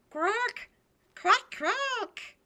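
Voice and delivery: very high squawking quacks; loud grating duck. Acted. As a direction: quack harshly like a drake. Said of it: "why is my dog voice so loud and grating?".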